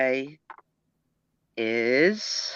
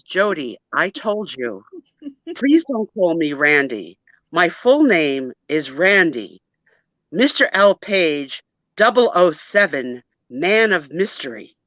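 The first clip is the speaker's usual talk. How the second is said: lightly put-on British accent; secret-agent introduction in a mild British accent. Schoolboy insisting on his full name, in a light British accent. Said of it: "are you speaking with a British accent?".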